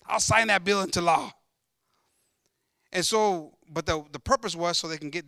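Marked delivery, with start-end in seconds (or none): 0.0-1.3 a touch of excitement, easing off; excited king. Acted. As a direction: play a flattered king eagerly agreeing. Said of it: "they get him all excited".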